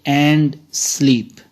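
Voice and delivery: "and" light, "sleep" leaned on; stress on sleep. Shown as a demonstration. Teacher shows the iambic foot, stress on sleep. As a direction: give "sleep" the beat. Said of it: "And is unstressed, sleep is stressed".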